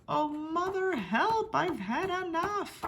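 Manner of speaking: a hint of a trapped little troll shouting; mild shout for help. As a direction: call out for help, a touch panicky. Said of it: "He shouted through the gungeon fluff".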